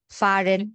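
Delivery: "ফারেন" with a clear consonant R; sounded R. Shown as a demonstration. Teacher sorting German R words for student, R sounded. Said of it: "আর এর মতোই উচ্চারণ হচ্ছে".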